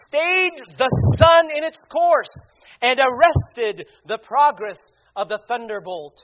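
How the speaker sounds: loud, stately declamation, key words stretched; oratorical preaching. Real, not acted. Preacher quotes John Chrysostom on prayer's potency, declaiming. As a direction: declaim each phrase with mounting force and pauses between.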